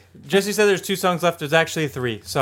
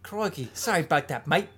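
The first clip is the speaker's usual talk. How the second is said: softer put-on Aussie accent; mock Australian; 7 dB quieter than usual. Co-host answers the barbie invitation, mock Australian accent. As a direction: toss off an Aussie apology. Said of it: "How about Australian?".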